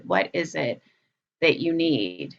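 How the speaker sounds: still, attentive. Acted. Caretaker to a child on their lap, still and attentive. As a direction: ask it with a pause, like soothing a child. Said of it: "you just get really still".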